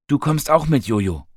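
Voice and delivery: calling out high and loud across to her; a bright, loud call to bring her along. A narrator's reading. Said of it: "rief Nathan auf".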